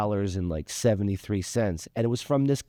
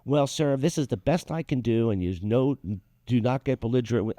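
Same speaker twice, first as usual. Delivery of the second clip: white voice. Retold or imitated. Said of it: "You do a good white voice".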